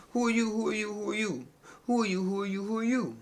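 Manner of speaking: high, incredulous who are you; mock-outraged chant of who are you; indignant repeated demand. Real, not acted.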